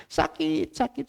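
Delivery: soft moaning over pain; imitated pained complaint. Sick person answering about recovery, pained. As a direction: quietly act out a sufferer's "aduh".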